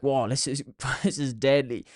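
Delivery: put-on kid's delight. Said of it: "I would have been like".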